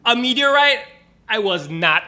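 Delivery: high surprised exclamation; cartoon amazement. Reacting to the meteorite, high amazed cry. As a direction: gasp at the sky in awe.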